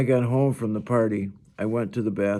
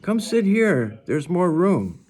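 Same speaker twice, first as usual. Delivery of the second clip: put-on higher girl's voice inviting; Summer's voice; 9 semitones higher, 5 dB louder, slower than usual. A narrator's reading. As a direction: coax her friend over lightly. Summer answers the other girl.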